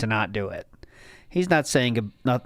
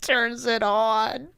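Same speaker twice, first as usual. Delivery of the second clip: laughing whisper; 7 semitones higher, slower than usual. Real, not acted. Laughing whisper after a joke.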